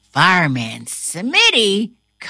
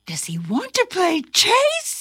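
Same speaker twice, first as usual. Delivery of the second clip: cat voice; 10 semitones higher than usual. A narrator's reading. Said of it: "says Itty Bitty".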